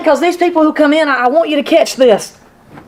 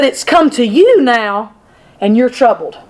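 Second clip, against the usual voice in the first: sincere; 4 semitones lower than usual. Retold or imitated. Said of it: "That sounds better".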